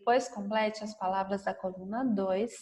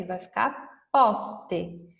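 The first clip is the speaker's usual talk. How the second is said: slow and clear; 3 semitones lower, much slower than usual. Shown as a demonstration. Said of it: "se eu colocar S".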